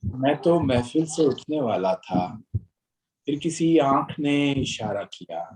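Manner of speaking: measured, rhythmic ghazal recital; poetry recitation. Acted. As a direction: recite each line with weight.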